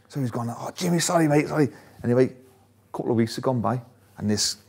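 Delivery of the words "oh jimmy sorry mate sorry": higher-pitched, lightly acted sheepish sorry; mock apology. Gazza placating the angry kit man, light mock apology. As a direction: imitate someone pleading pardon, mildly.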